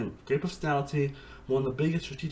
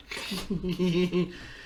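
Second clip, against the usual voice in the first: giggle; 4 semitones higher than usual. Shown as a demonstration. Reacting to a favourite moment on rewatch, giggling. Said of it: "that moment just makes me giggle".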